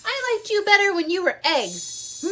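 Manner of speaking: a hint of a grouchy bear; grumpy retort. Bear telling goslings he preferred eggs, lightly grouchy. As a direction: grumble it with stern annoyance. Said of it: "Bruce was very stern".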